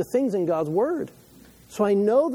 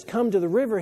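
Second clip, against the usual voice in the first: higher-pitched, impassioned call; urgent invitation; 5 semitones higher than usual. Acted. Preacher voicing Jesus inviting people to the river, urgent. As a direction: call them in to the water.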